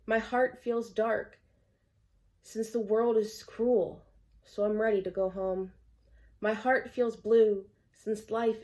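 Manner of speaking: earnest recital, leaning on each repeated opening; measured verse with pauses between lines; poem reading. Acted. Poet reading Yearning for a Better World to viewers, poem reading. Reads own poem aloud.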